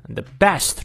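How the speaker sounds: "best" punched and drawn out; slow, weighty "best"; stressed BEST. Shown as a demonstration. Teacher marks the stressed words, heavy stress on "best". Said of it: "the best重读".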